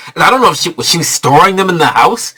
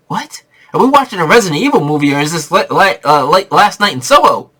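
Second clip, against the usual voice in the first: incredulous; 4 semitones higher than usual. Retold or imitated. Retold disbelief at the movie.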